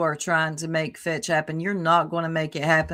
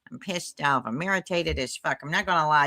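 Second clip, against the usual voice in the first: mocking echo; 4 semitones lower than usual. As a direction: echo her complaint under your breath, lowered. Echoing the irritated woman's words.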